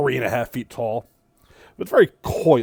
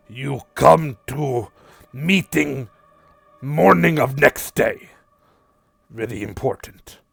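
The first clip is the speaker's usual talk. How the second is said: lightly voiced small creature, broken English; a hint of a squat beast delivering a message; Vorlo's voice. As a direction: GM voicing the creature Vorlo, mild and earnest.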